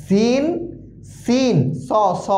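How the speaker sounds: সিন thin and light, সদ thick and full; drilled Arabic letters. Shown as a demonstration. Teacher drills three similar letters for students, slow and exact. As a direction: contrast সিন, সা and সদ with slow held letter names. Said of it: "স উচ্চারণ হবে".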